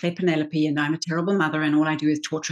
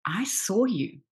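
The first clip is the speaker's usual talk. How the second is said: hushed, awed whisper; stunned whisper; 2 semitones higher, 5 dB quieter, slower than usual. Retold or imitated. Actress who went cold recognizing the little girl, whispering. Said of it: "stopped and went cold".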